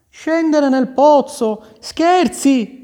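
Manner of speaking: high, slow, disbelieving; you can't be serious, little sister; older sister scoffs at going down the well; incredulous older sister. A narrator's reading. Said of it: "le disse la più grande".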